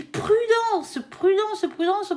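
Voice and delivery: high, drawn-out first "prudence"; emphatic warning. Real, not acted. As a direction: stretch "prudence" high, then repeat it insistently. Repeats a warning from the cards.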